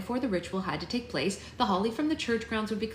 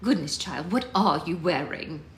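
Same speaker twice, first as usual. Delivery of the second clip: disdainful; 3 dB louder than usual. Acted. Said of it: "disappointment and disdain as she said".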